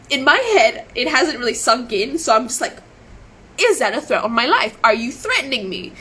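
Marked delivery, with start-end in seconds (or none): 3.6-5.9 retold angry challenge; getting angrier. Streamer confronts the man over his warning, getting angrier. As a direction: recount your rising anger as pointed questions. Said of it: "I'm getting progressively angrier".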